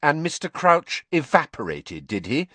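cold, sceptical retort. A narrator's reading. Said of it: "said Hermione coldly".

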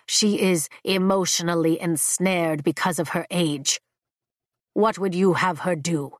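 low, measured, ancient dragon; deep dragon voice. Acted. Dragon Leothan speaks.

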